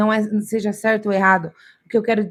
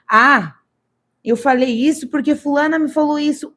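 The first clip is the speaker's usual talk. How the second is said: whiny excuse; 5 semitones higher than usual. Acted. Acted excuse blaming another.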